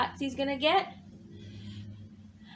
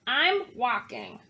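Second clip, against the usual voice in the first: snapped; 4 semitones lower than usual. Acted. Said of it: "snapped Bird".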